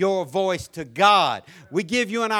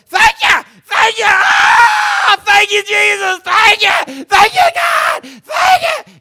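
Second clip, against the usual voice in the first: far higher, much louder, ecstatic crying out; overcome shout of praise; 13 dB louder, slower than usual. Retold or imitated. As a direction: shout your thanks, overwhelmed. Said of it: "I'm talking".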